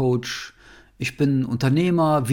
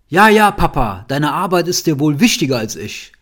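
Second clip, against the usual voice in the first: put-on reproachful child; 6 dB louder than usual. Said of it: "Und der Satz war".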